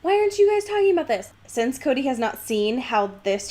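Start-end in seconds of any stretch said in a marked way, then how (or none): 0.0-1.3 mock frustrated fan. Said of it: "are like".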